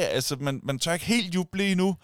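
ordinary talk

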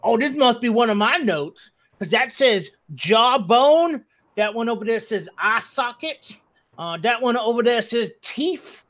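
lightly voiced game character reading notes aloud; Bodok. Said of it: "and goes".

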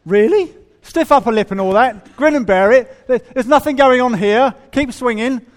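mock incredulity. Real, not acted. Mocking golf club rules.

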